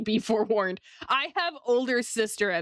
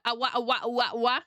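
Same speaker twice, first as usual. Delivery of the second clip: little yappy wah-wah laugh, lightly imitated; mock a chihuahua's laugh; imitating a chihuahua laugh; faster than usual. Streamer answering chat, imitating someone's chihuahua laugh. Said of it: "Her chihuahua laugh?".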